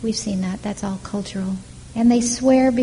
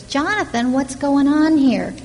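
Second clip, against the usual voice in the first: alarmed plea; 5 semitones higher, 4 dB louder than usual. Acted. David confronts Jonathan, alarmed.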